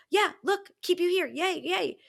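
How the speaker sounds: high, loud mock cheering; excited reaction. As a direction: cheer eagerly, overdoing the delight. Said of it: "that was my actual reaction".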